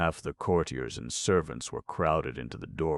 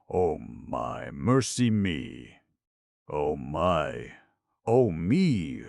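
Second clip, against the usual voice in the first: flutter through each cry in shock; flustered dismay; 4 dB louder, much slower than usual. Acted. Djinn overwhelmed with shock.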